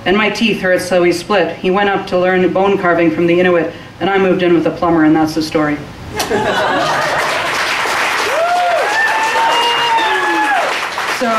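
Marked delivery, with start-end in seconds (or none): 5.8-11.1 real burst of laughter and cheering; long burst of audience reaction. Real, not acted. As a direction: crowd laughing as the piece ends. Audience responds as the story ends.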